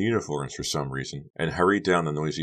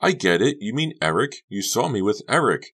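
realizing; 7 semitones higher, 4 dB louder than usual. A narrator's reading. Honey realizes.

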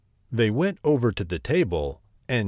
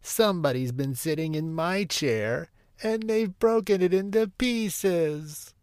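high little cub voice, climbing higher; tiny Baby Bear; 8 semitones higher than usual. A narrator's reading. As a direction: wail it like an upset small cub.

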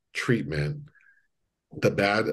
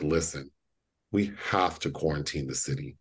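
a touch softer, level and reasonable; calm and logical; 4 semitones lower, 4 dB quieter, faster than usual. Retold or imitated. Doctor calmly telling officials the city must be quarantined. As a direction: talk them down calmly. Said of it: "She's being very logical, very calm".

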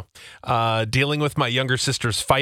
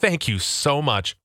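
fake gratitude; 3 semitones higher, slower than usual. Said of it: "telling a gift giver".

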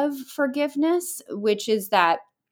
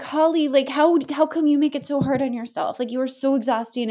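self-scolding voice; 5 semitones higher than usual. Retold or imitated. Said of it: "and I'm just like".

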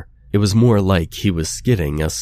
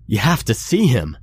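higher, pleading cry; screamed plea; 5 semitones higher than usual. Acted. Kurt begging his friend to see the attacker, panicked cry. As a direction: beg him to see, voice pushed up high. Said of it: "he screamed".

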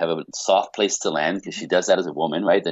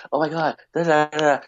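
excited wife; 8 semitones higher than usual. Retold or imitated. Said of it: "she's like".

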